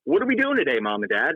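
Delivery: a hint of an expectant child asking the parents; imitating kids. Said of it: "my kids come home and they're like".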